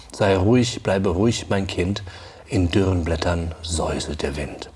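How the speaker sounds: measured, lilting recital in German; poem recitation. Acted. Teacher reading the Elf King's lure aloud, rhythmic and measured. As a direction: recite the verse with the horse's beat.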